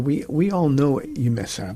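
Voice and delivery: hushed, confiding whisper; whispered aside. Real, not acted. Knowing aside to listeners.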